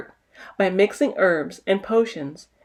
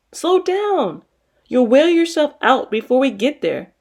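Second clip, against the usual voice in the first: warning; 5 semitones higher than usual. Acted. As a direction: mildly call out to a running friend. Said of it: "warned Adesiwa".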